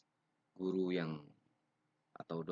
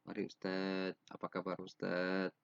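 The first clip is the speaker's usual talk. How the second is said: gentle, polite. Shown as a demonstration. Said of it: "ini berlemah lembut".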